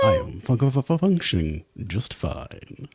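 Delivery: squeaky stuttering malfunction voice; glitching robot. Acted.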